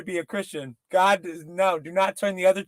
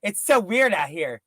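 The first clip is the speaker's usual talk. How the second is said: relaxed. Retold or imitated. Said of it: "she's like".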